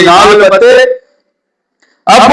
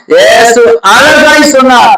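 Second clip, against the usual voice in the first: proclaiming; 2 semitones higher, much slower than usual. Real, not acted. Preacher proclaims.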